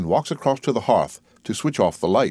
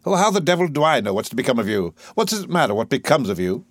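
exasperated, pitch lifted; testy dismissal; impatient; 3 semitones higher, faster than usual. Acted. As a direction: brush off the worry irritably. Higgins impatient with Eliza.

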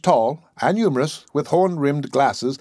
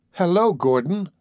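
raised pitch, calling over a shoulder; 6 semitones higher than usual. A narrator's reading. Edith calling to Gordon across the ballroom, a light call. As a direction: call his name across the dancers. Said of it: "called Edith over her partner's shoulder".

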